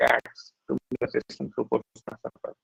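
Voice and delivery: choppy, breaking audio; glitchy robotic call. Real, not acted. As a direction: voice cutting in and out. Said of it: "your audio is, uh, breaking".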